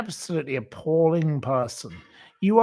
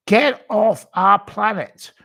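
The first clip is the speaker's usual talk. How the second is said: angry shout; 6 semitones higher, 6 dB louder than usual. Real, not acted. Repeated rant line, louder slower take.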